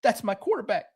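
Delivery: high, mock-devoted fan voice; imitating Dan. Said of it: "He's gonna be like".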